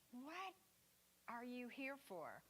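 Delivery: soft, hushed musing question; wondering whisper. Retold or imitated. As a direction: breathe it like a secret wonder. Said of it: "it makes you wonder".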